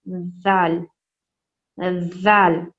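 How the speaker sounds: जाल with tongue between the teeth, soft th-like z; soft dhal sound. Shown as a demonstration. Teacher showing children the Arabic letter, soft and slow. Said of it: "टंग को यानी ज़बान को दोनों दांतों के बीच में".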